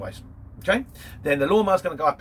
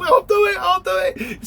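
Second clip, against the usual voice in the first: high, loud, eager cry of volunteers; eager shouting; 8 dB louder, slower than usual. Retold or imitated. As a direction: shout it like everyone's fighting for the job. Office staff eager for Paris job.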